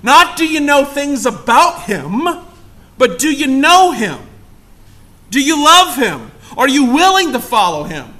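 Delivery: loud, high, pressing sermon questions; preaching. Acted. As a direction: push each question at the room. Preacher challenging the congregation.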